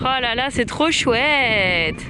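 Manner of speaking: slow, drawn-out delight; delighted admiration. Real, not acted. Vlogger seeing the stranded boat, delighted admiration. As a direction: stretch the words out in delighted wonder.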